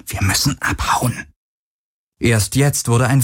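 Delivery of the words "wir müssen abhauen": hushed and pressing; urgent whisper. A narrator's reading. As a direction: keep it secret but push her to leave. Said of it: "flüsterte Garland drängend".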